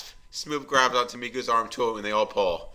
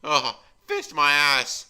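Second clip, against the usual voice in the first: moaning; 5 semitones higher, 6 dB louder, much slower than usual. Acted. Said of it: "lets out a very loud moan".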